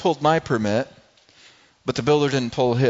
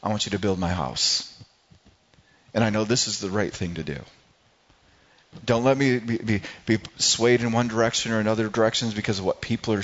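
humble prayer; 3 semitones lower than usual. Retold or imitated.

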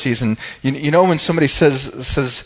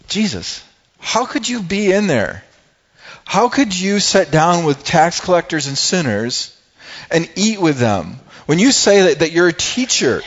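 indignant Pharisees; 5 semitones higher than usual. Retold or imitated. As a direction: scold Jesus as a shocked Pharisee. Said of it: "They're like".

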